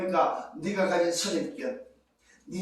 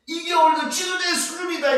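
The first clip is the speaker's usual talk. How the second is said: scornful jab; 8 semitones higher, 5 dB louder than usual. Acted. Preacher mocking leaders' level.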